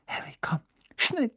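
hushed call jumping high on the last word; urgent. A narrator's reading. Girl urging her friend to come quickly, urgent. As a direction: hurry him along urgently. Hermine urges Harry to hurry.

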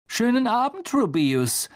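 sharp, high, cold greeting; cutting voice. A narrator's reading. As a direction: slice the words with icy scorn. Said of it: "mit schneidender Stimme".

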